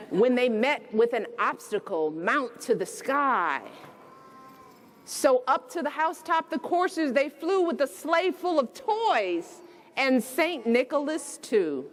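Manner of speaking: gentle read-aloud storytelling; bedtime story reading. A narrator's reading. Reading The Night Before Christmas aloud to children, storybook voice.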